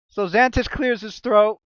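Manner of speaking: slow, ominous storytelling voice; dramatic narration. Acted. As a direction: paint the scene with suspense.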